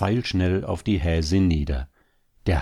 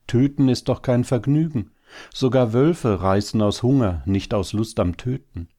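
higher-pitched protest, easing toward the end; indignant; 6 semitones higher than usual. A narrator's reading. Hare wife protesting killing for pleasure, indignant. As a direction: object with mild outrage. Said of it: "Die Häsin war empört".

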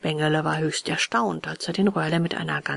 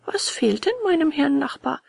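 caring, higher-pitched question; liebevoll; 8 semitones higher than usual. A narrator's reading. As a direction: ask with loving concern. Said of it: "fragte liebevoll". (liebevoll besorgt)

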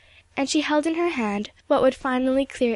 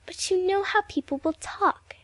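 gentle; 8 semitones higher than usual. A narrator's reading. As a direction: say it gently, pitched up. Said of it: "said Evelyn gently".

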